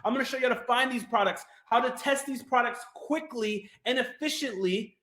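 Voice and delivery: brisk, energetic sales pitch; talking fast. Real, not acted. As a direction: rush through the steps briskly. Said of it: "Maybe I'm talking too fast".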